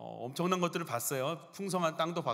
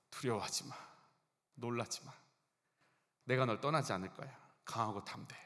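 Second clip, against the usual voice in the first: softer, gentle reassurance; God reassuring; 4 semitones lower, 4 dB quieter than usual. Retold or imitated. God quietly comforts Joshua after forty years. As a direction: speak it quietly, like a comforting promise. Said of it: "하나님이 지금 여호수아한테 하고 있어요".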